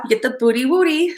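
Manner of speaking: put-on playful, lightly babyish rhyme; cutesy nursery-style rhyme, lightly done; baby talk. Shown as a demonstration. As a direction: say "booty wooty" like mild baby talk. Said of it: "like, baby talk".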